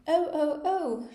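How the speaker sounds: shouted. A narrator's reading. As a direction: wail it out like a steam whistle. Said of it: "shouted the Queen".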